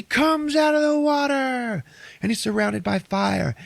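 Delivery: high, shouted, drawn-out narration; hammed-up triumphant storytelling; excited climax. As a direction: burst out as the hero surfaces. Storyteller acts triumphant surfacing.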